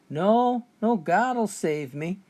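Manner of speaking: slow, unhurried refusal; calm. Retold or imitated. Drowning preacher calmly refusing the captain's help, slow and serene. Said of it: "The preacher calmly said".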